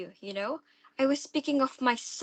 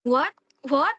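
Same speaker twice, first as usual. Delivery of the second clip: shocked; 5 semitones higher, 5 dB louder than usual. Acted. Stepdaughter shocked at casting.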